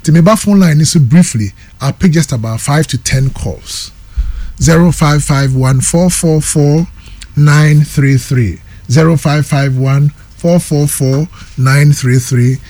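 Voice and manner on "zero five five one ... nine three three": slow dictation. Acted. Host dictating phone number.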